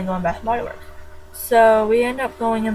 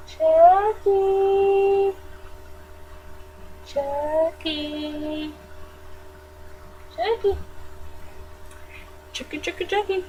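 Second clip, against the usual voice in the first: calling out; 8 semitones higher, 3 dB quieter, much slower than usual. Acted. Calling out to doll.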